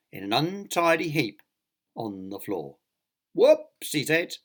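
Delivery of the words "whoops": high, loud cartoon whoops; playful whoops. A narrator's reading. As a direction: pop it out like a comic mishap. Clumsy character after falling.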